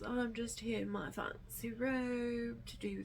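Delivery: put-on high breathy old-Hollywood glamour voice; breathy vintage purr. Glamorous greeting in fancy robe.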